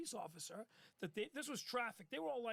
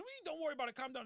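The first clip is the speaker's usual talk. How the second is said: alarmed; 6 semitones higher, 3 dB louder, much faster than usual. Retold or imitated. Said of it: "He goes".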